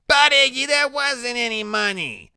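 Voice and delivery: high, anxious woman voice; nervous pleading. A narrator's reading. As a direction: plead with the boss. Loretta pleading.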